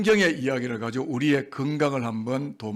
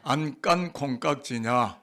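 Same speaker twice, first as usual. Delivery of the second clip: slow, measured phrase to repeat; slow model reading; slower than usual. Shown as a demonstration. Preacher leading congregation in a tongue-twister, slow model reading. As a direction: say it slowly for others to echo. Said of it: "저를 한번 따라하겠습니다".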